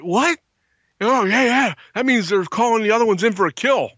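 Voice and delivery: high, startled disbelief; alarmed surprise. Retold or imitated. Camper hearing the coyotes are hunting, high and startled. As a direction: jump at the news. Reacting to coyote frenzy call.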